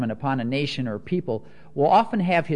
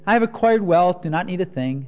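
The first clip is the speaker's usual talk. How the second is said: sarcastic; 4 semitones higher, 4 dB louder than usual. Shown as a demonstration. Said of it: "really sarcastic tone".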